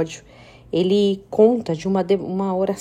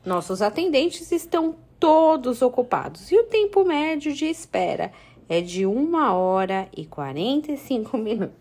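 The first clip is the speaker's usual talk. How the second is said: phone menu voice; 2 semitones higher than usual. Retold or imitated. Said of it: "serviço de atendimento eletrônico".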